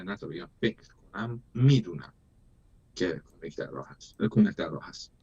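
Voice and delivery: fast, earnest message straight to the listeners; rapid reassuring address. Acted. Speaking to dear friends in Iran, fast and reassuring. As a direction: rush through it to reassure the audience.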